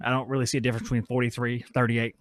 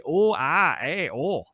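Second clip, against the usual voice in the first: mock Minnesota vowels, drawn out; Minnesota accent; 5 dB louder, slower than usual. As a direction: play up the Upper Midwest "oh, ah". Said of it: "That's how they talk".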